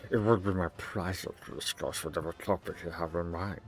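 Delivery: a hint of an oily host greeting lords; mildly voiced fawning governor; pompous governor. Governor voice again.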